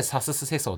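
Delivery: サススセソ with the "i" sound turned into "u"; Akita dialect vowels. Shown as a demonstration. Explaining Akita speech to a co-host, サススセソ in dialect vowels. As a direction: say サススセソ, shi merged into su. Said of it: "秋田弁が".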